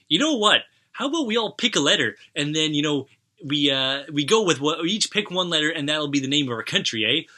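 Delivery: high, hammed-up Canadian "eh" voice; mock Canadian accent. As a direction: play the jolly Canadian settler. Canada joke, Canadians naming country.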